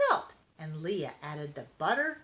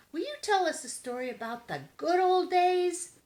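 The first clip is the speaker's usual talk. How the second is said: high, louder pleading kitten voices; begging kittens; 12 semitones higher, 6 dB louder than usual. A narrator's reading. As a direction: plead sweetly for a bedtime story. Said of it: "begged the kittens".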